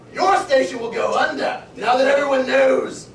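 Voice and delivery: booming, gloating villain's warning; loud villain threat. Acted. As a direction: proclaim it loudly like a villain. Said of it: "All right, let's start over".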